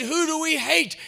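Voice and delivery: high, loud mock drill-leader shout; rallying call. Helmeted woman rallies boys in church, high mock shout. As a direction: imitate a leader firing up the troops.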